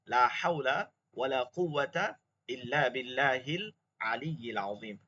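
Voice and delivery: slow, careful recitation of the dua. Shown as a demonstration. Teacher reciting the repentance dua to the class. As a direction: recite it slowly and piously.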